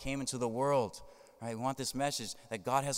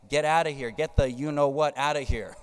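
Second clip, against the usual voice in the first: forceful rebuke; 2 semitones higher, 6 dB louder than usual. Retold or imitated.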